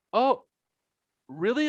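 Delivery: high-pitched surprised "oh"; retold surprise. Retold girl's surprised reply.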